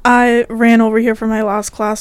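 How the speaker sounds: breathless after running; out of breath. Real, not acted. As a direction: talk while catching your breath. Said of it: "so I'm a little out of breath".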